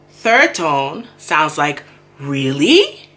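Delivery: really dipped then rising, doubtful; slow tone demonstration; tone demo. Shown as a demonstration. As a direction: say really like a skeptical question. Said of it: "in my head, I have to say".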